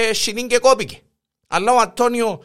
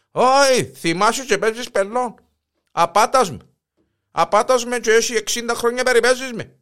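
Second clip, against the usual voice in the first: mock angry husband; 5 semitones higher than usual.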